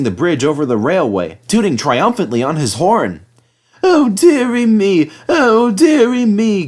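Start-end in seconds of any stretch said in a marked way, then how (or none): 3.8-6.7 high, loud, slow dismayed groan. Acted. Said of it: "groaned Thomas".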